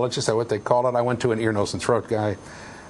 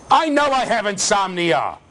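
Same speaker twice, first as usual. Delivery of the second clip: exasperated patient; 9 semitones higher, 3 dB louder than usual. Pretend.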